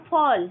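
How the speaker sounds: ফল said loud, ফ carrying a clear অ; demo pronunciation. Shown as a demonstration. Teacher showing students the অ in ফল, loud and clear. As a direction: sound out ফল with the অ after ফ. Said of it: "ফয়ের সাথে অ আসছে".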